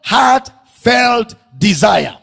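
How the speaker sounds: very slow, word-by-word emphasis; emphatic preaching. Real, not acted. Preacher repeating what supplication is, emphatic. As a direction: set each word apart with weight.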